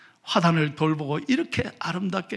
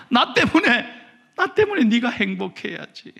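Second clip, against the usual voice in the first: ordinary talk, nothing marked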